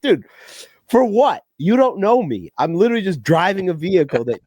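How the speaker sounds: mildly hammed-up indignation; retold indignant protest. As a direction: replay protesting to a rude driver. Re-enacts confronting the other driver.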